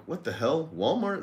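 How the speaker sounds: retold disbelief, pitch jumping up on Walmart; incredulous. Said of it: "I'm like".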